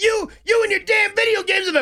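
very high, shrill, high-pitched yell. Retelling an argument with a loud neighbor: imitating a neighbor yelling. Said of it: "she's yelling at me from the top of the stairs".

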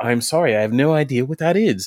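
gentle, sweet, high, apologetic tone. Retelling a panel answer, imitating Matt Smith being sweet. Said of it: "trying to be so sweet".

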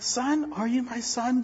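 soft, slow, let-down, disappointed fatherly tone. Acting out his father's reaction to a detention notice: imitating dad's disappointed tone. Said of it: "My dad used to look at me with the soft voice".

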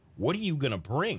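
ordinary delivery

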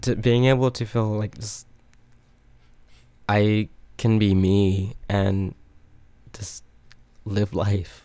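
holding back tears, halting, breaking words. Speaker sharing a personal story about feeling welcomed, holding back tears. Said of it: "I'm trying not to cry".

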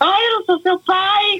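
put-on very high, desperate, panicked yell. Speaker retelling how a man reacted to being called father, imitating a panicked shout. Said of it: "começou a gritar, desesperado".

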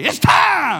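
very high, very loud, booming angel-like shout. The speaker acts out the angel announcing the moment, angel shouting. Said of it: "With the shout".

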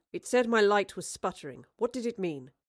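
ordinary delivery

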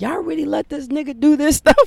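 very high-pitched, shrill scream. Retelling what the girlfriend says about the old shows: imitating someone screaming. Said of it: "she screams at me like".

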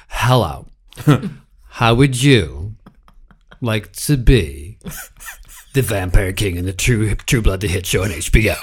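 put-on showy, theatrical, dramatic delivery with New York accent. Retelling a phone call from an agent: imitating a dramatic agent. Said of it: "my agent's a fantastic New York type, and he likes to be dramatic".

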